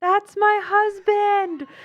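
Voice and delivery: put-on shrill, very high, super loud excited cheering yell. Retelling what she yells whenever her husband does something good, retelling a super loud yell. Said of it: "I always yell".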